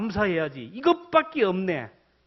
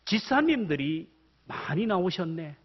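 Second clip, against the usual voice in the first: thankful. Shown as a demonstration. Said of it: "관점을 다르게 보면 감사하는 거예요".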